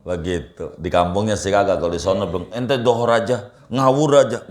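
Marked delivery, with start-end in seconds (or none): 2.5-4.5 mock angry scolding, rising louder at the end; angry retort. Man retold telling the preacher off, mildly angry. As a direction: imitate an annoyed man snapping back. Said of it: "marah dia".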